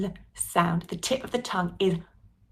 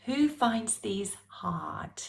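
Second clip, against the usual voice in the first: whisper; 5 dB quieter, much slower than usual. Real, not acted. Teacher coaxing class quietly.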